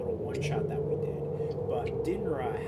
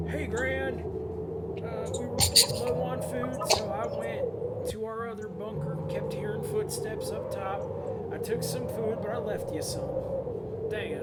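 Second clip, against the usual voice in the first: higher-pitched character voice reading a note; Dan; 7 semitones higher than usual. Acted. Dan's note left for Gran, read in his voice. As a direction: read the note aloud in the writer's high voice. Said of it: "That's just what he sounds like".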